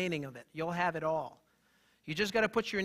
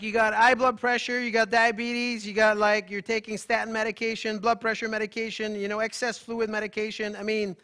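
stern lecture; 3 semitones higher, 7 dB louder than usual. Retold or imitated. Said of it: "I'm like".

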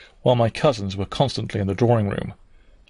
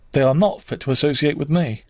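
cried out; 4 semitones higher than usual. Acted. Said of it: "I cried out suddenly".

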